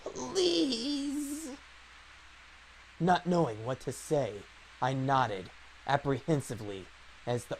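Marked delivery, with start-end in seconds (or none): 0.0-1.5 put-on very slow creaky old voice; grumpy old man. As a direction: plead slowly like an old man. Old woman voice in dub.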